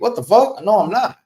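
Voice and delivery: high incredulous protest; indignant disbelief. Retold or imitated. Contradicting the driver to the caller, high and incredulous.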